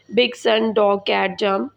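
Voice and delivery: बिग, सन, डॉग, कैट, जंप each said in a single unbroken beat; one flow. Shown as a demonstration. Teacher showing students one-syllable words, said in one flow. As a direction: run बिग सन डॉग कैट जंप together without stopping. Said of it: "आप एक ही flow में बोल देते हैं".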